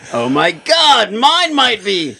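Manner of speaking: hammed-up alarmed viewer; mock panic. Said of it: "gonna be like".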